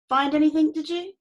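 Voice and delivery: a lightly voiced self-important customs officer; pompous officer. A narrator's reading. Officer voice again.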